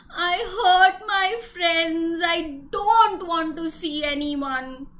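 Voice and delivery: slow, tearful elephant voice; sad. Acted. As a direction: drag it out, close to tears.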